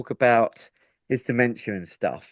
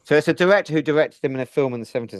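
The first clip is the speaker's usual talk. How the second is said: muffled by hands over the face; much faster than usual. Real, not acted. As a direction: talk through hands covering the face. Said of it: "each time you put your hands over your face, you muffle your microphone".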